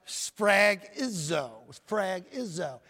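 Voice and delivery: careful, slow Greek word "sphragizo"; pronunciation demo. Shown as a demonstration. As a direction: teach the word "sphragizo" by saying it slowly twice. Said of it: "It's pronounced".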